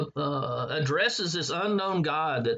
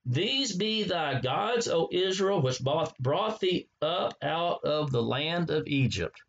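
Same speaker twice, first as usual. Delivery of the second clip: slow scripture reading. Shown as a demonstration. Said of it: "notice what he says here".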